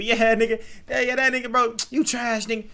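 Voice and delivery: loud, high hyped slang with the homies; African American accent. Retold or imitated. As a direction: hype it up like joking with friends. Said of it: "when I'm around black people".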